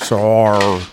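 "Sar" as Australian "so", R added; Australian accent. Shown as a demonstration. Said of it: "You gotta add an R in there".

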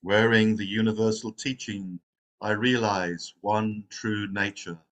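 measured, solemn recital of a verse; verse recitation. Real, not acted. Opening a meditation with the Verse of the Robe, recited. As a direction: recite it line by line, slowing into the close. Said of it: "reciting one of the Zen Buddhist".

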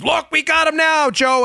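high-pitched mock celebration; mocking, high gleeful cheer; gloating liberal. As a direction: crow it like an overexcited partisan. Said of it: "celebrated by liberals with Trump derangement syndrome".

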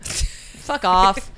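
normal talking voice

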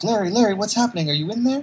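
high, urgent calling out; alarmed calling. Retold or imitated. Eleanor calling to Larry, high alarmed voice. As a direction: call his name in alarm.

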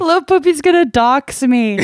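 high, laughing through the words. Real, not acted. Guest joking about getting exposed online, laughing. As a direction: say it while cracking up.

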